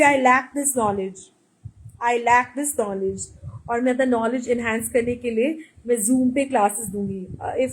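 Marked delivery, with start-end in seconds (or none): 0.0-1.2 slow, drawn-out mock confession; slow sarcasm. Mocking herself over her cousin's English, slowly. 2.1-3.2 slow, drawn-out mock confession; slow sarcasm. Mocking herself over her cousin's English, slowly.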